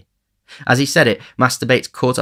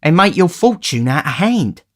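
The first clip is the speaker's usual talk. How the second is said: grinning; 9 semitones higher, 6 dB louder than usual. A narrator's reading. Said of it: "added the Dodger with a grin".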